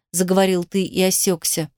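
ordinary delivery, nothing marked

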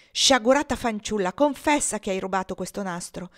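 loud opening, then firm demand; indignant scolding; stern accusation. Acted. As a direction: press sternly for a confession. Mistress demands a confession.

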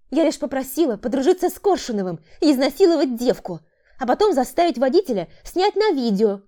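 flustered woman. A narrator's reading. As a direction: justify herself in panic. Woman justifies herself. (сбивчивые оправдания)

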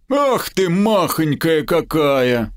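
high, slow gurgling cooing; gurgling tentacle alien. Acted. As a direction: gurgle it out like a creature. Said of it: "забулькал гоблин".

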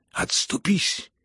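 high, drawn-out hoarse cry; anguished shout. A narrator's reading. Suffering rival to the prince, shouting. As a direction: shout it slowly from a groan. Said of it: "прокричал он князю".

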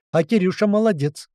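a hint of high parrot squawk. A narrator's reading. Parrot boasting from the roof, lightly squawked. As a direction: lightly crow your own praise. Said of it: "снова выдал попугай".

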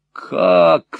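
sharp, loud outcry of "Как?"; вскрик. A narrator's reading. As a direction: cry out in alarm. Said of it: "вскричал тот". (вскрикнуть громко)

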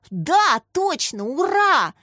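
high, loud cheer; excited shout. A narrator's reading. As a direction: cry out jubilantly, rising into the cheer. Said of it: "закричал Дима".

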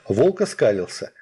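usual speaking voice

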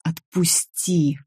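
slow, shaking plea, a touch of fear; trembling plea. A narrator's reading. Nika pinned by Richard: slow frightened plea. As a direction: beg him to let go, barely holding on. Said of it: "меня уже трясло".

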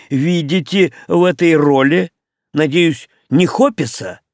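loud stern questioning. Acted. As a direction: press them like an inspector. Henry suspicious, interrogating.

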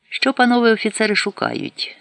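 put-on high-pitched Ukrainian with a Moscow accent; a stranger straining at Ukrainian in a Moscow accent. A narrator's reading. A Moscow-accented stranger eagerly asks officers, in a Moscow accent. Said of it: "з помітним московським акцентом".

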